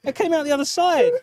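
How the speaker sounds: hammed-up pained cry; mock pain. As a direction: overplay getting hit. Hit by toy dart.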